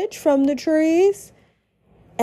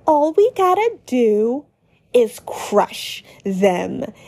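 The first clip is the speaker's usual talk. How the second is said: menacing Susie. Acted. Susie boasting to Lancer, menacing. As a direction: drag out crush them with relish. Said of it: "with that teeth-baring smile".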